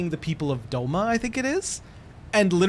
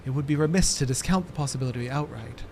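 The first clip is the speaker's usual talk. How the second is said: lightly acted alarm easing into reasoning; astonished game scholar; 3 dB quieter than usual. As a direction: recoil in disbelief, then reason formally. Voices game dialogue.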